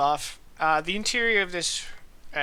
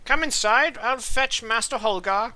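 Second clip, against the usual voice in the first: butler voice; 7 semitones higher, 3 dB louder than usual. Acted. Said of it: "He's like".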